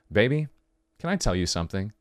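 low, gentle lover's opening; tender. Acted. Boyfriend asking his partner to listen, tender. Voices tender romantic proposal.

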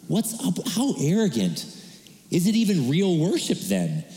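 mock indignant prayer. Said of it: "I was like, God".

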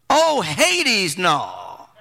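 "no" dropped very deep; mock outrage. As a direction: rise on "Hades", then sink "no" to the floor. Preacher mocking outraged refusal.

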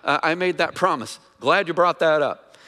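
mock forgetful God. Preacher mocks the idea that God forgot his promise, casual and sheepish. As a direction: pitch jumps high on "Oh, yeah", then a casual, sheepish recall. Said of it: "He doesn't gain wisdom from Moses".

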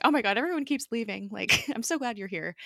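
quick, high mock gush of relief; happy gushing. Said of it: "Simmons is so happy".

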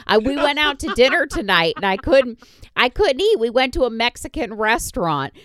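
talking around a lollipop; words around a sucker in the mouth; sucking a lollipop. Real, not acted. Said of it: "so I'm eating a sucker".

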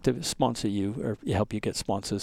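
put-on soft, hesitant, light South African accent. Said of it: "he's got this South African accent".

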